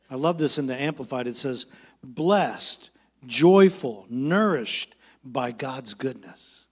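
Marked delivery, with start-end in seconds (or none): 2.0-6.7 slow, weighted verse reading; measured pulpit reading with stretched key words; scripture reading. Acted. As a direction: read the verse out slowly, phrase by phrase. Reads Amplified Bible verse.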